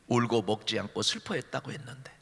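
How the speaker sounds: breathy, softly whispered grief; hushed whisper. Acted. Preacher recalling Hannah's weeping in a near whisper. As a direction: drop to a near whisper over her sorrow.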